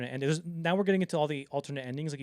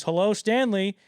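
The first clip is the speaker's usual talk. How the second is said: eager greeting; 7 semitones higher, 11 dB louder, slower than usual. Retold or imitated. King answering Kubrick's call.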